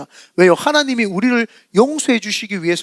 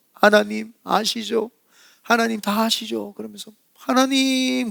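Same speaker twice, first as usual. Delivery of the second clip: tearful prayer; 5 dB quieter, slower than usual. Retold or imitated. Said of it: "막 울면서".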